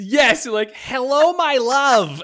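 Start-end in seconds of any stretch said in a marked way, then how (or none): 0.7-2.2 very high, loud, fake Russian accent. Recounting to a friend how game characters talk: fake Russian accent. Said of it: "They're putting on a fake Russian accent".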